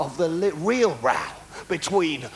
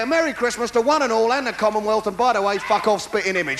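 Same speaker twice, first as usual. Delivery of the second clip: mock Queen's speech. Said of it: "She could say".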